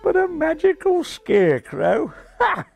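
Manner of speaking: very high Aussie disbelief; Australian pigeon marvelling with a laugh; amazed Australian. A narrator's reading.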